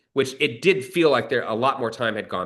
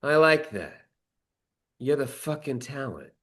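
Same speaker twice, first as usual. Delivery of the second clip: imitating the mob guy; 3 semitones higher than usual. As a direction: lean back, pleased, repeating his words. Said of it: "he looks at me and goes".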